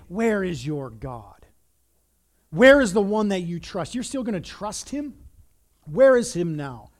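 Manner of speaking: jeering crowd questions; mildly mocking challenge. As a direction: taunt him with each question. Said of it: "they're mocking him".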